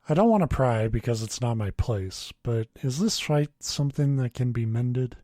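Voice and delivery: steady read-aloud storytelling voice; story narration. A narrator's reading. Podcast host reading the story to his co-host, steady narration. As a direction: read the story lines evenly to the listeners.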